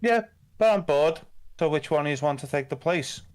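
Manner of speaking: put-on bored cruel noble, childish demand; sadistic lord. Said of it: "Grog's quite good at playing sadistic".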